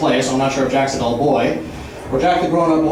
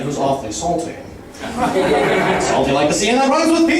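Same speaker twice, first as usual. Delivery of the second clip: rapid absurd wordplay rant, building; escalating comedy rant. Acted. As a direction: riff faster and wilder as it goes. Roast-style free-association rant.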